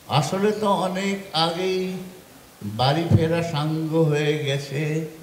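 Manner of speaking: narrative verse with long pauses; poetry recitation. Acted. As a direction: recite it as a reflective poem, line by line. Recites fourth poem. (থেমে থেমে কবিতা আবৃত্তি)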